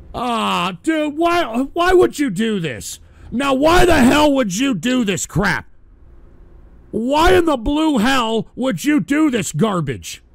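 loud, rising outrage, slowing on the last line; exasperated yelling. Real, not acted. Host yells at a viewer over offensive donation art, exasperated shout.

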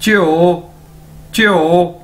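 च्यो as one syllable like Punjabi प्यो; model pronunciation. Shown as a demonstration. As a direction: drill च्यो. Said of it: "उसी तर्ज के अंदर बोलना है च्यो".

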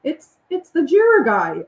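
high, loud fangirl squeal; starstruck greeting. Retold or imitated. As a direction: squeal it like meeting a celebrity. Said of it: "I was like".

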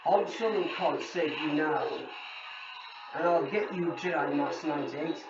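robotic masked villain voice; Kylo Ren voice changer. Acted. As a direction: speak through a voice changer mask. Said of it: "just turn on the voice changer".

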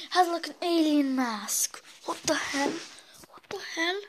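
scared whisper. Real, not acted. Seeing the alien mask.

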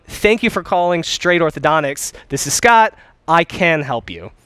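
a light touch of cheer and confidence; cheery confident. Shown as a demonstration. Coach demos a confident greeting to a caller, cheery. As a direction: greet the caller like you're glad they called. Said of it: "with a cheery, chipper voice".

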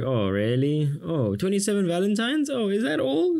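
mock the spoilt daughter, climbing high; unimpressed girl. Teacher imitates Elizabeth's spoilt reply, squeaky and high. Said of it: "She's like".

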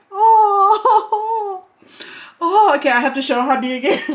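laughing through tears. Real, not acted.

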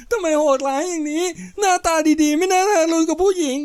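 high, tearful wail; sobbing reproach. Acted. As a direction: plead through sobs in a thin high voice. Kicked woman sobs. (ร้องไห้คร่ำครวญเสียงสูง)

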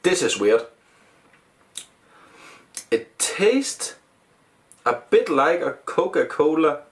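speaking between sips; talking with glass by mouth. Real, not acted. Seen 0: small glass of cola held just under masked mouth throughout.

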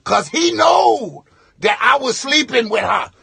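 loud boastful confession over the mic; mock drunk guest yelling his secret; drunk shouted confession. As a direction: shout it to the whole wedding. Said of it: "rapper looking dude".

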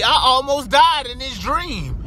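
telling the scary dream, worked up; excited retelling. Retold or imitated. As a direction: stretch it out like it really happened. Chased with gun, retold.

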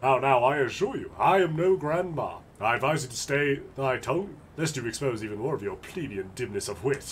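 haughty aristocrat, lightly voiced; a hint of a snooty lord; pompous noble. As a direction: look down your nose at peasants. Noble character voice.

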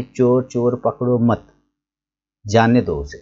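चोर चोर पकड़ो मत run together, a break, then जाने दो उसे; pause after मत. Shown as a demonstration. Teacher shows traders the let-him-go reading, pausing after मत. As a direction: hold back जाने दो उसे until after a clear pause following मत. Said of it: "दोनों सेम बात बोलता है लेकिन अलग-अलग अंदाज".

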